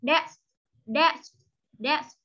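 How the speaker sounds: "Desk" with an audible s-k ending; clear final sound. Shown as a demonstration. Teacher re-drilling the word's ending for a pupil, clear final consonants on "Desk". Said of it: "chú ý luyện lại âm đuôi".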